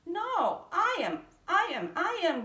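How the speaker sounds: many cats each claiming to be prettiest; quarrelling cats. A narrator's reading. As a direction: bicker and compete loudly. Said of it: "cried the hundreds".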